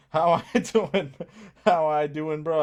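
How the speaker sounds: reading the typo aloud through a laugh, loud; laughing misreading. Shown as a demonstration. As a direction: chuckle out the wrong words, amused. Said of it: "I think you meant how you doing".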